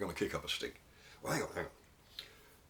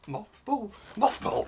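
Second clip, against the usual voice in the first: shouted punchline; 14 semitones higher, 9 dB louder, slower than usual. Acted. Punchline repeated louder.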